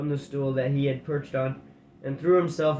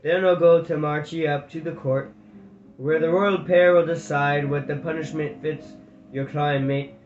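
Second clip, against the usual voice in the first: a friendly guard, sorry but firm; apologetic guard. Acted. Guard apologising to the prisoners, lightly voiced.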